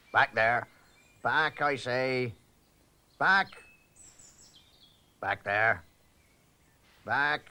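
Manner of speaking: commanding shouts. Acted. Constable taming the lion.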